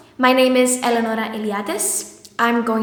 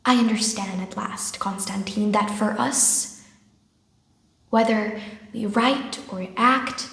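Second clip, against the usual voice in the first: softer, earnest realization; subdued Nina; 3 semitones lower, 5 dB quieter than usual. Acted. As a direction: confide a hard-won understanding. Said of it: "playing the part of Nina".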